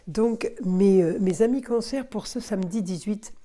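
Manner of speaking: sick, feverish voice; talking while ill with fever. Real, not acted. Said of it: "ça doit s'entendre, hein, ma voix".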